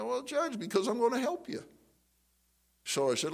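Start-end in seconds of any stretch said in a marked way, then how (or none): 0.0-1.6 high, sweetly placating voice. Retold or imitated. Sheriff answering the angry judge, placating. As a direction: imitate a sheriff humouring a hothead.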